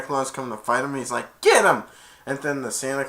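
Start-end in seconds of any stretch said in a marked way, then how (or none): 1.4-1.8 raised, loud mock command; attack shout. Santa calling the bunch to fight, loud order.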